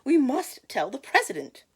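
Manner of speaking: very high, loud alarm call; excited storybook cry of alarm; frantic yell. Acted. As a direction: yell it in a high-pitched panic.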